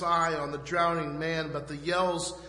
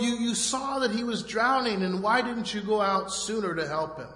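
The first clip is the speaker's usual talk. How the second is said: imitating onlookers' yelled reproach, higher and louder; retold yelling; 4 semitones higher, 4 dB louder than usual. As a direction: raise your voice like an accusing bystander. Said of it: "And they yelled".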